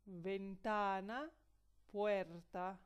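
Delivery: slow, careful "ventana" and "puerta"; example words. Shown as a demonstration. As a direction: say "ventana" and "puerta" clearly for learners. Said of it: "o vocales y consonantes".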